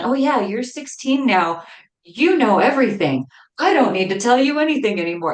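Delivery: teasing, playful tone, acted. Retelling a remark to a teenage son, imitating a joking tone. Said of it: "jokingly, of course".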